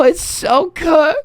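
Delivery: it's so cooked drawn out slow and high, rising at the end; stretched lament. Real, not acted. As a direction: wail "cooked" upward. Despair over simmed game.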